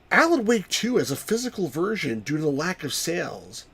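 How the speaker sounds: bad mock-intense reading; lightly put-on intense impression; Gamers Grotto. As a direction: raise the pitch a bit for a hammy read. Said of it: "that was a really bad impression".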